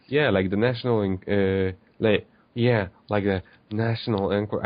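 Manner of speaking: failed attempt at a Valley Girl accent. Shown as a demonstration. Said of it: "I cannot do the Valley Girl voice".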